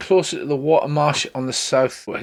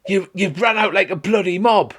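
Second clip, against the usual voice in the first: high-pitched mock bellow at a crowd; hammed-up furious telling-off; angry shouting; 7 semitones higher than usual. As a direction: scold them all in a raised voice. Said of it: "starts shouting at the top of her voice".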